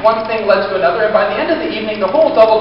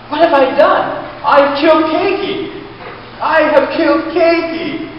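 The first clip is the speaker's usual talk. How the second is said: horrified panic; 7 semitones higher than usual. Retold or imitated. Horrified realization retold.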